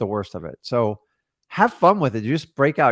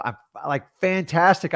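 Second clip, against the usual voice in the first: bright, higher "fantastic" with a lift on the word; upbeat; 4 semitones higher than usual. Retold or imitated. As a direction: sell "fantastic" like you mean it. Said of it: "answer people in a very upbeat".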